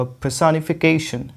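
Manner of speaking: पर्सोनिफिकेशन said slowly, syllable by syllable; model pronunciation. Shown as a demonstration. Teacher shows students how to say the term, careful model pronunciation of पर्सोनिफिकेशन. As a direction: carefully enunciate पर्सोनिफिकेशन for learners. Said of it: "तो ये हो जाएगा".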